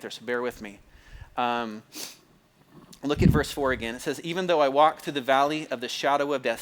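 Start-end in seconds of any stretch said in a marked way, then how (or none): 4.2-6.6 measured scripture-reading cadence. Shown as a demonstration. Preacher reading the psalm aloud, measured reading cadence. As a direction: read it like a solemn recitation. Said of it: "See, I do it again. I just read it in that, that cadence".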